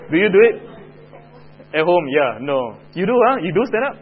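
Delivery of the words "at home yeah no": ordinary delivery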